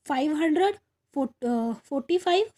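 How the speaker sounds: "फ़ाइव हंड्रेड फ़ोर्टी फ़ाइव" said a bit slowly, with a rise on "फ़ाइव"; slow read-out. Shown as a demonstration. Teacher reading the number to students, a touch slowly. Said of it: "reads the number, then writes it".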